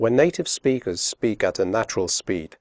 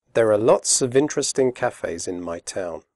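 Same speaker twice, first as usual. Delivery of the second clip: quickly. Shown as a demonstration. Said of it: "first slowly and then quickly".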